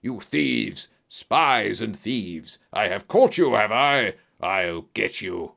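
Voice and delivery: put-on villain voice, swelling to a shout; villain's angry shriek. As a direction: rage in drawn-out accusations and threats. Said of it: "he shrieked".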